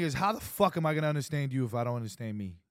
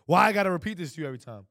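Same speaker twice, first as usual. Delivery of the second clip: heavy, fast, louder demand; heavier demanding; 4 semitones higher, 7 dB louder, faster than usual. Shown as a demonstration. To his wife, fed up with repeating himself. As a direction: press it like an accusation. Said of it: "This feels so much heavier and stronger".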